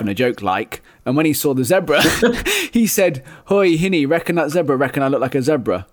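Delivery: lightly voiced Geordie widow quoting John; Geordie accent. Reading the widow's quote aloud in a light Geordie accent. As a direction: read the widow's words with a touch of Geordie. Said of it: "that's so Geordie".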